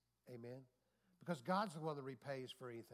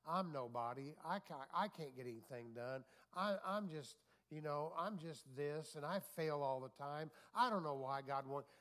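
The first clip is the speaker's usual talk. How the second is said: self-pitying whine. Retold or imitated. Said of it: "when we're always looking at ourselves".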